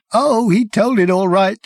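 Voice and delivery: high, loud, savage. Acted. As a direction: spit it out savagely. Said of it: "said the man savagely".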